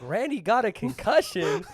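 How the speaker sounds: laughing, disbelieving question; retold disbelief with a laugh; incredulous echo. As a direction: repeat the news as a baffled question. Incredulous echo of the caller's news.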